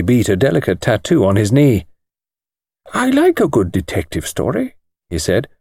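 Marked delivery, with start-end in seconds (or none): 2.9-4.7 thin precise voice. A narrator's reading. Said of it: "thin, precise little voice".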